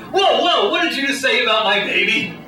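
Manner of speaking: startled, protective "whoa, hold on"; affronted parent. Acted. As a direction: take mock offence on your baby's behalf. Acted affronted parent over baby insult.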